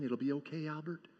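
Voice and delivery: steady and gentle through the chaos; calm reassurance. Retold or imitated. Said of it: "he just keeps calmly saying".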